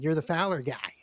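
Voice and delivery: imitated English accent. Telegram-office stranger recognizing him, English accent. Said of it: "he did it in, like, an English accent".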